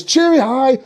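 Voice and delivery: high singsong chirp; elven greeting. Acted. Elves greeting everyone, singsong. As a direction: pitch it up with a rising end.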